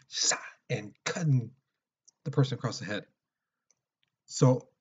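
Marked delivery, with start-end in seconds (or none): 0.1-0.4 swishing "shah" imitating a blade; knife slash sound. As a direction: make a quick knife-slash noise. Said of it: "imagine a big old knife coming".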